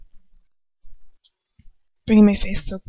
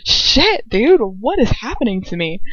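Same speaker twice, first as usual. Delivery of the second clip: startled outburst; 3 semitones higher, 3 dB louder than usual. Real, not acted. Reader startled by tripping over her own reading, yelping. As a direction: catch yourself off guard.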